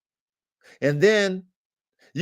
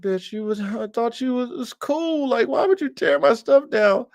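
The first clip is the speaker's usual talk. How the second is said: retold scolding; 8 semitones higher than usual.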